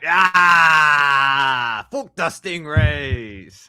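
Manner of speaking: hammed-up Aussie accent, shouted; loud mock Australian cry. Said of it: "give him your best Australian pronunciation".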